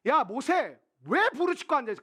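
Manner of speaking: mild mock reprimand; scolding God. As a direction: tell him off sharply.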